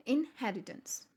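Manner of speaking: इनहेरिटेंस said slowly with हे stressed; slow, lean on हे in इनहेरिटेंस; stress on her. Shown as a demonstration. Teacher slowly modelling इनहेरिटेंस with stress on हे. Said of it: "H पे हम stress लगा देंगे".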